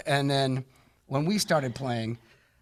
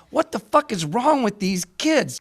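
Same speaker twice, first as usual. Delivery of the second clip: retold angry rant; 7 semitones higher than usual. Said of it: "I'm just angry".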